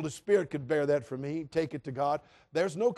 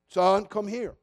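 calm parent call; 2 semitones higher, 5 dB louder, slower than usual. Retold or imitated. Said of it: "he'll speak softly, sort of like a parent".

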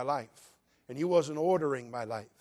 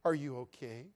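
sweet concern; 3 semitones lower, 7 dB quieter than usual. Retold or imitated. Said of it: "You're so sweet".

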